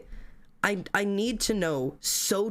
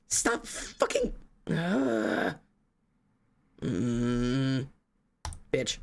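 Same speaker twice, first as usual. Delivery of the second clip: strangled frustration; 5 semitones lower, much slower than usual. Retold or imitated. Frustrated outburst at herself.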